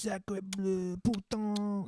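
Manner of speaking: high, hammed-up French exclamations; mock French fan cursing; French accent. Mocking booing French crowds.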